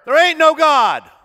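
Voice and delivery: loud, high shouted denial; angry shout back. Retold or imitated. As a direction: yell it over the fence at her. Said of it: "he would shout back at her".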